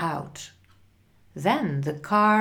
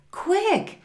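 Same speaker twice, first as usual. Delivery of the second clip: urgent shout; 12 semitones higher than usual. A narrator's reading. Mother calls father to come, shouting urgently. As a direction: summon someone at once. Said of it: "she shouted".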